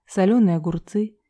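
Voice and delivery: usual speaking voice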